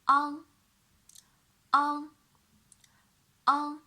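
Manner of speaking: "on" drilled as a velar nasal; clear demo syllable. Shown as a demonstration. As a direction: model "on" with the tongue back. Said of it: "a with an velar nasal".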